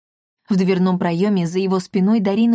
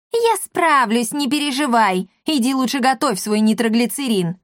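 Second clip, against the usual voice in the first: dismissive witch; 4 semitones higher than usual. Acted. Witch brushes off the old apothecary, dismissively. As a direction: wave him away.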